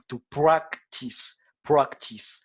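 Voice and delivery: slow, careful "To practice, practice" with a crisp English "pr"; model pronunciation. Shown as a demonstration. Teacher modelling "practice" for French students, slow and careful. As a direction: say "practice" slowly, each sound clear, for learners to copy. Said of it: "on dit to practice".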